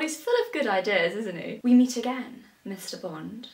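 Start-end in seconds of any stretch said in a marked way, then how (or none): 1.6-3.5 a hint of a film villain; Bond villain. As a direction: greet an old enemy with mock menace. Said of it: "You be the villain".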